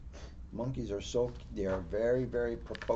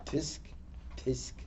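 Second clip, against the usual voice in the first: softer drawn-out tsks; monkey tsk; 10 dB quieter, much slower than usual. Pretend. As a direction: play the cheeky monkey. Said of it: "my animation partner".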